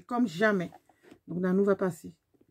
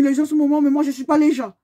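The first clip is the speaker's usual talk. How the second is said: indignant retort; 4 semitones higher, 5 dB louder than usual. Retold or imitated. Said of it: "J'ai dit".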